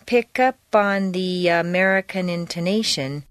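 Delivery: each sound of PICK UP ON pushing into the next; linked words. Shown as a demonstration. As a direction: run PICK UP ON together without a break. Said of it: "feel each sound pushing into the next".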